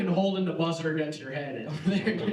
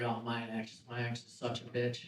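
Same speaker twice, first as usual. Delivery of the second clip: mocking whiny comic; 7 semitones lower, 9 dB quieter than usual. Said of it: "they get up on stage and they're like".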